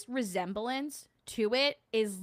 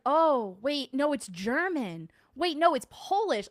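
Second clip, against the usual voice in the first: higher, louder mocking of the hunters; mocking ghost hunters; 6 semitones higher, 7 dB louder, slower than usual. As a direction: imitate them guessing wildly, rising. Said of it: "And then they're like".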